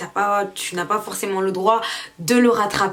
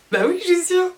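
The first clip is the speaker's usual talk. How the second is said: much higher, pinched yes-I'm-sure; high squeaky answer; 9 semitones higher than usual. Retold or imitated. Answering her friend at the McDo in a squeaky high voice. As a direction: squeak it out in a put-on voice.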